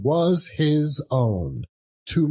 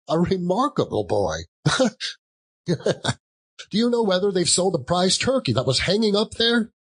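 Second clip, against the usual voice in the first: higher chuckling delight; giddy old man chuckling, then faster; gleeful Scrooge; 7 semitones higher than usual. Acted. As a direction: laugh through the praise.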